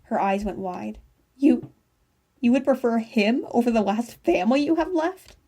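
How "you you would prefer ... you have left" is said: frail voice. A narrator's reading. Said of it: "she said in a frail voice".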